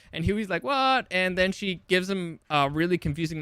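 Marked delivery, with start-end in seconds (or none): 0.6-1.1 a sudden high startled what; Huey caught off guard, yelping it out; shocked what. Retold or imitated. Huey hearing Annie end it, startled high yelp.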